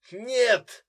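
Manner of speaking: loud, high cry of denial; desperate no. A narrator's reading. Brother refuses desperately, a loud high outcry. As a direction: throw out the word in desperate refusal. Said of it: "он отчаянно затряс головой".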